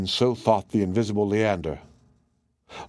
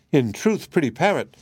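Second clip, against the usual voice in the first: cartoon princess; 4 semitones higher than usual. Princess speaks.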